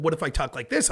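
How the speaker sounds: hurried, run-together words. Shown as a demonstration. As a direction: push the speed up to outpace the last speaker. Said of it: "the next person was like".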